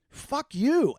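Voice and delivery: retold anger. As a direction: imitate an angry friend lashing out. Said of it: "got really mad at me".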